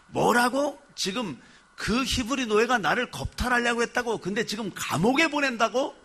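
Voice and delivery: can't believe what she hears; outraged disbelief. Retold or imitated. Wife protesting Joseph is only jailed, incredulous outrage.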